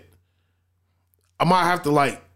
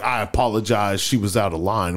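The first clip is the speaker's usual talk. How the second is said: imitated apology; 8 semitones lower than usual. Husband apology voiced lower.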